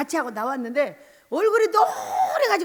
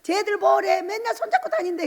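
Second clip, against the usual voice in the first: higher-pitched mimicry of gossips; imitated gossip sneering; 6 semitones higher than usual. Onlookers gossiping about her holding hands, imitated sneering. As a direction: gossip about a couple in a mocking high voice. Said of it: "사람들이 막 흉을 봐".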